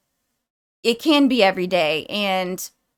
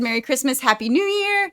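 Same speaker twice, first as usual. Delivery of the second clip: festive greeting; 3 semitones higher than usual. Shown as a demonstration. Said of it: "Like I said".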